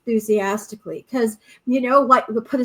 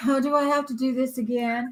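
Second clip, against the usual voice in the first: mock whiny reluctance; 3 dB quieter than usual. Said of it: "through life is like".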